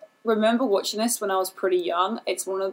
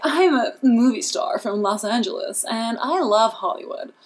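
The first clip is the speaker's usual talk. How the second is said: put-on phony Los Angeles accent; 2 semitones higher, 3 dB louder than usual. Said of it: "phony Los Angeles person's voice".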